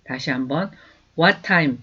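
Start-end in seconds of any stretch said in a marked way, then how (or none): 1.2-1.8 "What time?" said as its own chunk, then a pause; "What time" as a separate block; chunked phrase. Shown as a demonstration. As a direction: set it apart as one unit. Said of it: "따로 한 덩어리".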